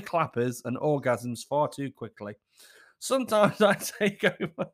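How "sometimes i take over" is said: breaking into a laugh. Real, not acted. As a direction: giggle halfway through.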